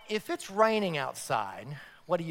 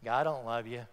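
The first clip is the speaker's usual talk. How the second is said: Satan's whisper; 5 semitones lower than usual. Retold or imitated. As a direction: murmur like the tempter sowing doubt. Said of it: "Satan whispers to us and say".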